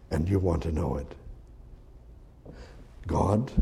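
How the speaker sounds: soft, low, slowed sermon voice dropping to a whisper; hushed preaching. Acted. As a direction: draw them in quietly. Quiet intimate preaching.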